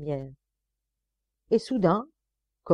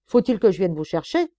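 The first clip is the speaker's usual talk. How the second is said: louder impatient demand; angry threat; 6 dB louder than usual. Acted. Sergeant threatening the prisoner who won't move, loud. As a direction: make it a threat.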